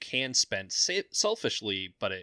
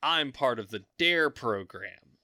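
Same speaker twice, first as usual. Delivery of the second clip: prim, slow, louder do-gooder voice; goody-goody refusal; 4 semitones higher, 5 dB louder, much slower than usual. Retold or imitated. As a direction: recite it like a proud DARE kid. Mock goody-goody refusal, DARE program.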